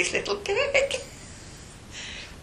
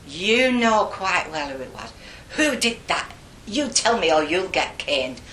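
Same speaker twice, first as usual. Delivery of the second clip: louder, higher cross nun interrogating; stern threat; 4 semitones higher, 5 dB louder than usual. Retold or imitated. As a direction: threaten the culprit with punishment. Acts nun threatening the girls.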